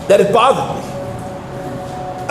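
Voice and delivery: drawn-out whispered words, very slow. Real, not acted. Rabbi in shiur lingers on his own unease, whispered slow. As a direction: breathe it out slowly, almost voiceless. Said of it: "And I remember it".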